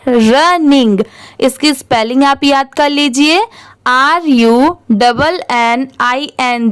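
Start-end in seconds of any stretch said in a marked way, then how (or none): 0.1-1.0 running said quickly in one go; running at speed. Shown as a demonstration. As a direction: read running at normal speed, smoothly. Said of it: "इसे speed में पढ़ेंगे". (रनिंग speed में, एक साथ)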